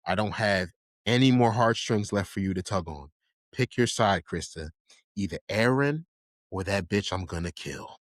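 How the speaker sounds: deadly serious, controlled ultimatum; Mikasa. Retold or imitated. Imitating an ultimatum to Krista, deadly serious and calm. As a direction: talk without yelling, but mean it. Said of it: "she was deadly serious".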